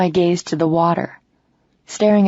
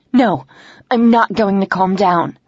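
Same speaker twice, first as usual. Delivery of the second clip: louder, flat-out defiant no; angry refusal; 2 semitones higher, 4 dB louder than usual. Acted. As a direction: push back hard, louder. Heated quarrel with Ben.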